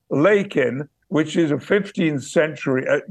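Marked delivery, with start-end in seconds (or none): 0.1-0.9 "Lakin" as Yorkshire word for playing; Yorkshire dialect. Shown as a demonstration. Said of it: "word for playing".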